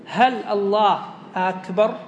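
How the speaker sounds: slow, deliberate question rising at the end of "أكبر"; استفهامية. Shown as a demonstration. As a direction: ask it slowly, drawing out "أكبر" with a lift. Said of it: "أيضًا كأنها استفهامية". (سؤال بطيء "هل الله أكبر؟" بنغمة استفهام)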